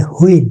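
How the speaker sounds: হুইল as "hu-il", with an h; local pronunciation. Shown as a demonstration. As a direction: start হুইল on an h. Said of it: "আমি আপনি হুইল বলি". (হুইল-এ দেশি হ ধ্বনি)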